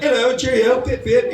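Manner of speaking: high, hammed-up British accent; cartoonish British caricature. Shown as a demonstration. American faking a Brit, high mock British accent. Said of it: "we do a British accent".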